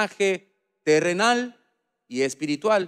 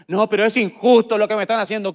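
whiny complainer; 5 semitones higher, 6 dB louder than usual. Acted. Complaining worker voiced in sermon.

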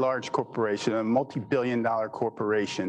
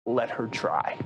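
understated calm, in a slightly lowered voice; slower than usual. Retold or imitated. Ed to colleague as they walk out, very calm. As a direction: say it evenly, unruffled. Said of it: "He's very calm".

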